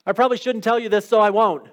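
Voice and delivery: playful mock confiding that stops itself; good alternative. Shown as a demonstration. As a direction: turn the opener into a cheerful refusal. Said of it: "You know".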